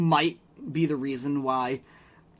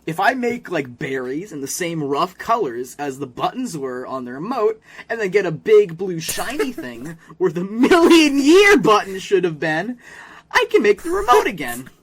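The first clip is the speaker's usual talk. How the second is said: mock Jimmy scheming; 2 semitones higher, 5 dB louder than usual. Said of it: "he's like".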